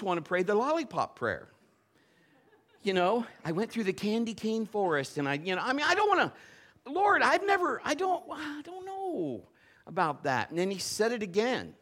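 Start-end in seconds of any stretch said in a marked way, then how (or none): 3.4-10.5 high-pitched, stammering reluctance; hammed-up panicky objection; mock whiny protest. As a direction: balk and plead, pitched way up. Acts out balking at God's instruction.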